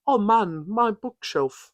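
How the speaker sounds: lightly voiced dad, mild dismay; a mock sad dad over the bookshelf; dad's voice. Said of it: "he's like".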